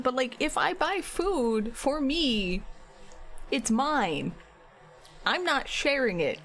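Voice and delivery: explaining to her partner why her food is hers; retold exasperation. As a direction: spell it out, mildly exasperated. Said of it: "It was exasperated".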